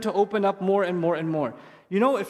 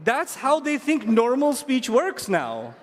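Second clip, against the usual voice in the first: mock baby-talk, slow and playful; a hint of cooing baby talk; baby talk demo; slower than usual. Shown as a demonstration. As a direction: show how parents talk down to kids. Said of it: "speak to them like this".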